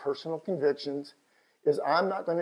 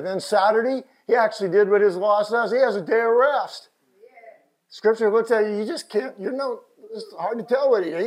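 animated preaching; 7 semitones higher, 6 dB louder than usual. Real, not acted. Preaches in raised voice.

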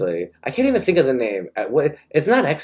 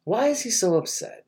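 whiny lament; 11 semitones higher than usual. Retold or imitated. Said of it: "I'm just like".

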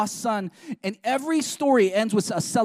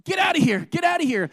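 higher, sharper mock shoo; shooing disciples; 7 semitones higher, 3 dB louder, faster than usual. Preacher voicing disciples shooing children away. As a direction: chase the kids off like a gruff disciple. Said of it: "his disciples like".

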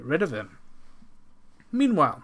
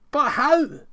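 higher, louder pleading question; desperate cry; 13 semitones higher, 8 dB louder than usual. Acted. Farmer to servants, crying out high and loud. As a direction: beg for an answer.

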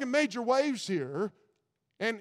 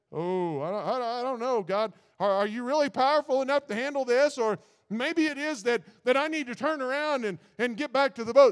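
mock panic; 4 semitones higher, 4 dB louder than usual. Voicing doubting Peter.

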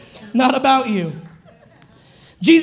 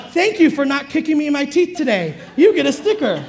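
mock parent praise. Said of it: "so you're like".

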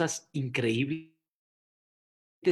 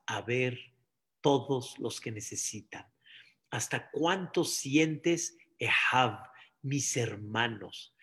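low, soft, earnest delivery; quiet, grave reflection after the climax; hushed solemn teaching; 4 semitones lower, 6 dB quieter than usual. Real, not acted. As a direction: drop to a hush and let it sink in.

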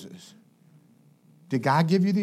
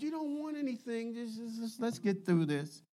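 burned-out resignation; 4 semitones higher, 10 dB quieter than usual. Acted. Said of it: "when you burn out".

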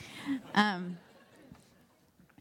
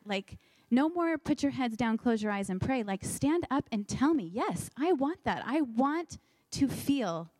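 eager plea; 4 semitones higher than usual. Retold or imitated. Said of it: "I said".

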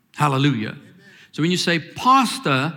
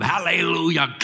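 power preacher; 4 semitones higher than usual. Retold or imitated. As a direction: open up like a power preacher on a stretched word. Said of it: "they preach. They just have to open up".

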